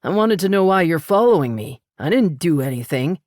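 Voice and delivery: lightly voiced man protesting; a stranger insisting he's innocent; defensive stranger. A narrator's reading. Stranger protesting to Paris on the road, lightly voiced.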